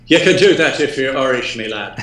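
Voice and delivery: put-on a light, playful touch of an Irish accent. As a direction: tease in a hint of Irish brogue. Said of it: "he's doing the goddamn accent again".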